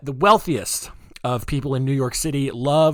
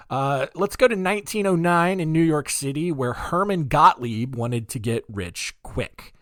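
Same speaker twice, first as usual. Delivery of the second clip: radio voice; 4 semitones higher than usual. Real, not acted. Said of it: "why am I talking like that?".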